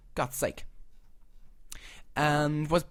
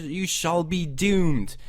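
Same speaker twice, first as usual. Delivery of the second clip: mock ominous; 4 dB louder, much slower than usual. Mock threat to viewers.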